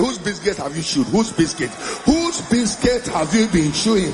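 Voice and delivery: mock angry questioning. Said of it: "Angry, angry".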